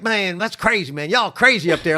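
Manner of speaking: high, loud mock amazement; mimicked amazed stranger. People marvelling at the New Yorker, mimicked high and loud. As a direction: imitate a wowed onlooker, loud and high.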